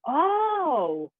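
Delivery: high, drawn-out acted "oh"; dawning realisation. Actor rehearsing with another actor, acted dawning realisation. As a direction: let a discovery swell through one long, high sound.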